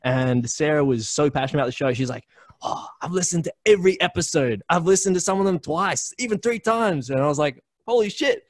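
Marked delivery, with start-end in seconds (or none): 2.6-7.1 gushing fan. Retold or imitated. Sarah gushing about episodes. 7.9-8.4 high, loud thrilled praise. Retold or imitated. Praising a devoted listener, high and thrilled.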